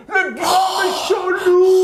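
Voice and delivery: excited shout, wolf reveal; dramatic announcement. Acted. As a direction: announce the big bad wolf with alarm. Le loup apparaît dans le conte. (annonce dramatique du grand méchant loup)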